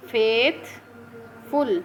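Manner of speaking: फेथफुल said slowly as फेथ-फुल, two beats; syllable by syllable. Shown as a demonstration. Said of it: "फेथ एक syllable और फुल दूसरा syllable". (फेथफुल को धीरे, फेथ-फुल दो हिस्सों में)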